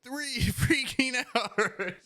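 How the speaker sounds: high, slow, laughing through words. Real, not acted. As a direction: laugh while saying it. Laughing at own short stream.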